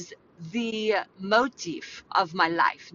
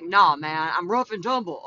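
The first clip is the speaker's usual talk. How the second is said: tomboy; 3 dB louder than usual. Acted. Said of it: "I grew up a tomboy".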